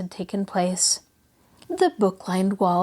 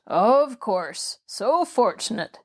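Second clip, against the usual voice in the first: mildly sarcastic agreement; scornful sniff; slower than usual. Acted. Patient mocking the girl's cheer, sniffy and scornful. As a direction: feign gratitude with a disdainful air. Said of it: "sniffed the man".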